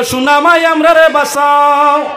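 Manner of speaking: slow, sing-song begging plea; a ghost crying for rescue; pleading wail. Acted. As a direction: drag it out like a desperate plea. Jinn begs the old woman.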